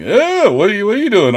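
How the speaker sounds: high-pitched imitation of mom; mom caught off guard. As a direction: voice a startled mom, pitched well up. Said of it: "she'd be all like".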